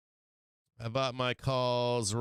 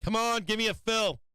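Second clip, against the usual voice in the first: pleading; 9 semitones higher than usual. Real, not acted. Begging for order fills.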